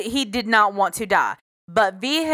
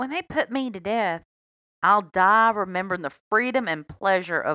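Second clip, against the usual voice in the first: faked, put-on Southern accent. A Midwestern woman plays a South Carolina serial killer, fake Southern accent. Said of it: "should i try my southern accent".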